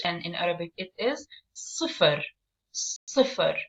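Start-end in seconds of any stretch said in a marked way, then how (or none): 1.5-2.2 "صفر" with a heavy, stressed S; "صفر", not with a regular light S; stressed hard S. Shown as a demonstration. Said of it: "So we stress on it". 2.7-3.6 "صفر" with a heavy, stressed S; "صفر", not with a regular light S; stressed hard S. Shown as a demonstration. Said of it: "So we stress on it".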